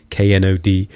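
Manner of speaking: K N O D spelled letter by letter. Shown as a demonstration. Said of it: "He spells nod".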